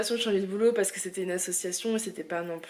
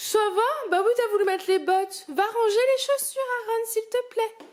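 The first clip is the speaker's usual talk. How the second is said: high coaxing; 12 semitones higher than usual. Real, not acted. Mother asking her toddler to tidy his boots, high coaxing.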